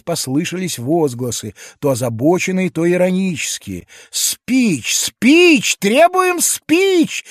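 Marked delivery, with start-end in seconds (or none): 4.1-7.2 much higher and louder, chanting demand; laughing shout. A narrator's reading. Young people laughingly demanding a speech, higher, louder. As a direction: shout it up like rowdy youths. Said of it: "смеясь кричала кучка молодёжи".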